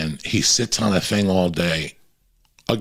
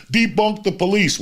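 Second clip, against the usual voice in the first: mock quote; 12 semitones higher than usual. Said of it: "the idiot that said".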